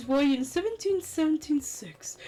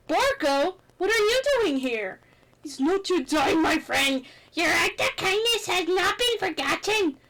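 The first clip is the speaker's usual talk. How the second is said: ghostly friend; 4 semitones higher, 3 dB louder than usual. Acted. Spirit voice appears.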